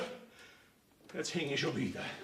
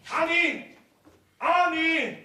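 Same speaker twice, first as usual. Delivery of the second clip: calling out; 8 semitones higher, slower than usual. Acted. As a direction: shout the name to fetch her. Father calls daughter from afar.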